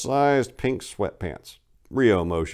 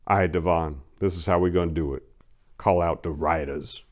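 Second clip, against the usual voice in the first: gang boss orders. Acted. Boss tells his henchman the plan, lightly voiced menace. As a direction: give the orders like a kingpin.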